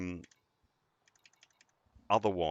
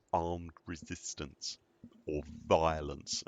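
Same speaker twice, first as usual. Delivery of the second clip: dry sarcastic repeat; 2 semitones lower, 3 dB quieter, much slower than usual. Acted. Ironic repeat of mission text.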